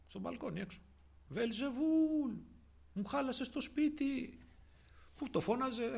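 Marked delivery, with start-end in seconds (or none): 1.3-4.4 imitated wailing shout. Father shouting from the balcony about his home, imitated wailing shout. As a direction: draw out each word like a call from afar.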